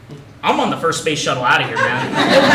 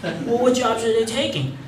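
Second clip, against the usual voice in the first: put-on curious kid; 5 semitones higher than usual. Kid player asks again.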